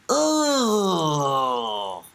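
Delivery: long groan sliding downward; drawn-out mocking "oh". Host imitating a group's reaction, mock groan. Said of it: "the Jews are like".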